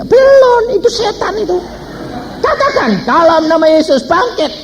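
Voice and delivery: high, exclaimed retort turning into a command; urgent acted command. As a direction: call it out with a preacher's authority. Acted urgent command in Jesus' name.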